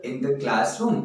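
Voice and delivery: slow, spaced-out English example; slow example sentence. Shown as a demonstration. Teacher dictates an example sentence to students, slowly. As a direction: dictate it word by word. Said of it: "class में बड़ा शोरगुल है".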